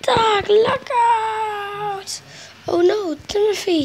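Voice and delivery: slow, drawn-out crying call. Acted. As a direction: stretch out the cry in panic. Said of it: "he cried".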